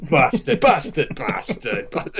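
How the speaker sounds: mock curses, each at a different pitch; playful run of impersonated "bastard"s; Sean Bean. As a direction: imitate an actor's swearing, varying the tone every take. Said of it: "all different kind of tones".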